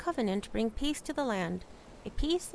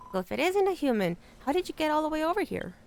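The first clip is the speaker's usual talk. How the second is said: gruff rat guard; 3 semitones higher than usual. Acted. Player voicing the rat guarding Fat Rat Land, pompous. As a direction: puff up like a pompous rat gatekeeper.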